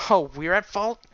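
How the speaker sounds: high, loud indignant retort; pissed off. A narrator's reading. Ginger rounds on the griffin, indignant and loud. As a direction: throw the blame back, voice rising. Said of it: "and she was pissed".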